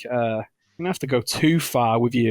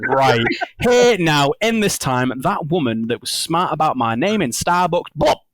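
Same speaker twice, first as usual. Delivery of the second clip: gleeful mock-villain voice, laughing mid-line; gloating inventor; 3 semitones higher, 3 dB louder, slower than usual. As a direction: savor the revenge like a cartoon villain. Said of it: "was like".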